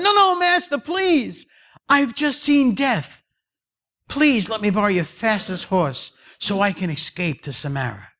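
very high, panicky plea; acted terrified servant; desperate pleading. Servant begs again, more desperately.

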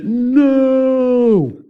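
sudden high shouted "No!"; retold yell. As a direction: yell it like a startled warning from the shore. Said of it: "I hear this".

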